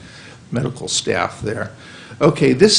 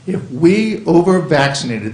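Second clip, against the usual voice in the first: raised, insistent warning; emotional; 5 semitones higher, 4 dB louder than usual. Real, not acted. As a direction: press the warning home, pitch lifted. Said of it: "I'm very emotional about this".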